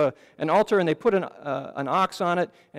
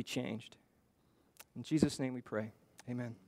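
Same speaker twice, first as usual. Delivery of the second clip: spoken prayer. Real, not acted. Preacher asking God to guide the congregation before the message, prayerful. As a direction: address God earnestly, pausing between phrases.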